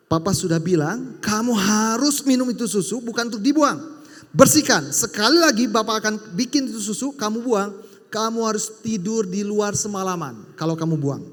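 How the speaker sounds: loud, firm father laying down the rule; stern warning. Retold or imitated. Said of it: "papanya langsung kasih satu tindakan begini". (ayah memberi peringatan keras kepada anaknya)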